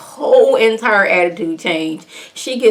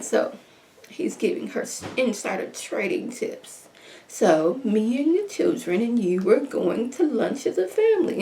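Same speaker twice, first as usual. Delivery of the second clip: bougie mom voice; 3 semitones higher, 8 dB quieter than usual. Retold or imitated. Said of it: "this bougie voice that the mom was giving".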